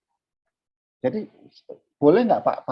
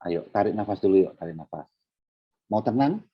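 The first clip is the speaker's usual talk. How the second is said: put-on coaxing a child; 4 semitones lower, 3 dB quieter than usual. Father coaxing a crying child.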